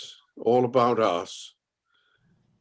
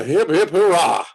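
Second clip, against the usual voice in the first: cheering; 4 dB louder than usual. Acted. Cheering at the good news.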